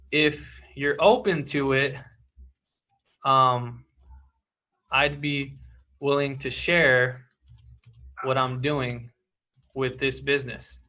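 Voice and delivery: drawn-out, gentle pause-filled offer; slow soft pitch read. Shown as a demonstration. Coach reading his pitch line aloud, slow and soft. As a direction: ease the offer out slowly and quietly.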